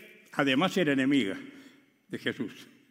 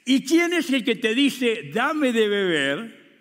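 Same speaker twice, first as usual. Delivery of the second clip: slow, high, louder and weighty; solemn voice of Jesus; 9 semitones higher, 8 dB louder, slower than usual. Acted. Jesus offering living water to the woman, slow and solemn. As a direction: deliver it like a solemn promise. Jesus's words quoted slowly.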